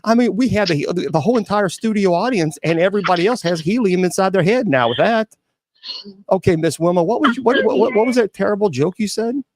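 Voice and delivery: a touch of helium squeak. Real, not acted. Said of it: "gonna be speaking in a weird voice".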